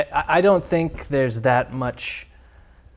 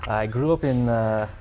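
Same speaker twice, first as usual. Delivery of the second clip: put-on Russian accent; 3 semitones lower than usual. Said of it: "do the whole show in your native tongue".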